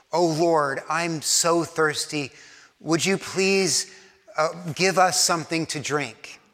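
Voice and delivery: slow, gentle asking prayer; humble plea. Shown as a demonstration. Preacher demonstrating a humble prayer for water, gentle and slow. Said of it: "Do you hear the difference".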